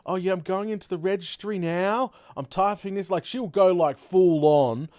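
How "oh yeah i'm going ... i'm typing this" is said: mock compliant victim. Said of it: "She's like".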